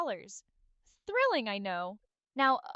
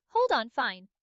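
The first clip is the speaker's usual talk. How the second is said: louder, exasperated giving-in; 6 dB louder than usual. Acted. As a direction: give in with loud exasperation. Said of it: "Exasperated sigh".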